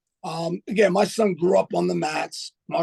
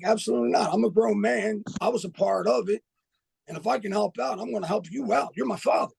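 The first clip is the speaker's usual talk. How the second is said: higher, pressing protest to a father; lightly retold son pushing back, pitched up; own insistent reply; 4 semitones higher than usual. Son insisting to his father he'll help, higher and urgent. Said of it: "I'm like".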